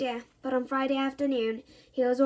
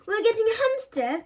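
higher, bright guess; eager cry; 9 semitones higher, 3 dB louder than usual. A narrator's reading. Bertie guesses the news, crying out eagerly. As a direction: blurt out hopefully. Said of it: "cried Bertie".

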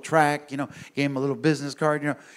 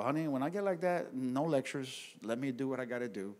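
calm request; 9 dB quieter than usual. Retold or imitated.

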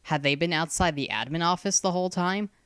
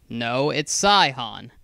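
slow correction, "Saihan" hit louder; correcting stress; 5 dB louder, slower than usual. A narrator's reading. Hyaktu corrects Sarala's reading, stressing "Saihan". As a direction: point out the right name, weighting "Saihan". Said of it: "Hyaktu pointed out".

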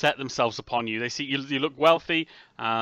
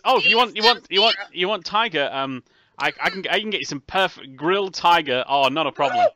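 lightly voiced eager shopkeeper, higher and louder; 5 semitones higher, 6 dB louder than usual. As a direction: pitch it up like a keen seller. Game master voices eager shopkeeper.

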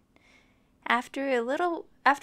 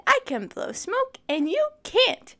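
boastful dragon; 9 semitones higher, 4 dB louder than usual. Acted. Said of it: "He said".

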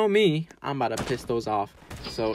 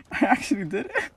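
elated; 7 semitones higher than usual. Real, not acted. Repeats in elated disbelief.

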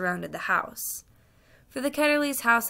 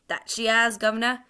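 louder Cockney onlooker; crowd heckler; 3 semitones higher, 5 dB louder than usual. Acted. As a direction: chime in from the crowd. Crowd member heckles the fat man.

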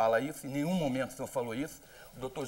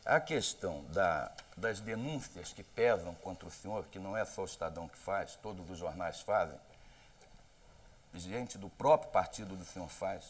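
lower, softer, slowed-down questioning; deliberately soft and calm; 5 semitones lower than usual. Shown as a demonstration. Journalist asks the candidate again, now in a soothing, softer voice. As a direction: ask it gently to keep him from losing control. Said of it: "Vou mudar a voz pra ver se o senhor não se descontrola".

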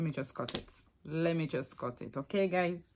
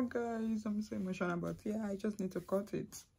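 quietly emotional; 4 semitones higher, 6 dB quieter than usual. Real, not acted.

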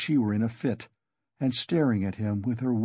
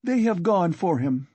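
higher-pitched, restrained shout; mild shout; 6 semitones higher, 3 dB louder than usual. A narrator's reading. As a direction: call it out to the sick man, without full volume. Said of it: "shouted to him".

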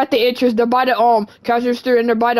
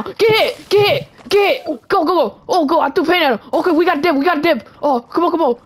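high, urgent battle cries; excited attack yell; 6 semitones higher than usual. Pretend. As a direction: yell as you hit and run. Throwing paint and fleeing.

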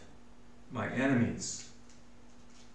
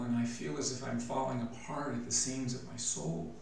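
fading into frailty; 2 semitones higher, 3 dB quieter than usual. Acted. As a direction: let the plea sink into weakness. David's prayer turns to weakness.

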